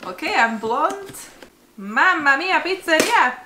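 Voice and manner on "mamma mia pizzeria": jolly italian pizza chef. Pretend. Playful Italian exclamation.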